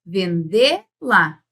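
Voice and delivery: "vendê-la" drawn out, stress on long "dê"; split pronunciation. Shown as a demonstration. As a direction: say "vendê-la" slowly as two words, vendê, la. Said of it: "E você pronuncia como?".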